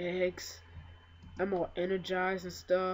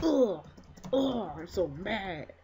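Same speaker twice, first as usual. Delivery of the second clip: mock frustration; slower than usual. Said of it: "be like".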